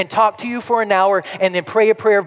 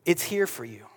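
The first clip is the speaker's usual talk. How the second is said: fading quiet Wisdom; 6 semitones lower, 8 dB quieter than usual. Retold or imitated. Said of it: "wisdom says".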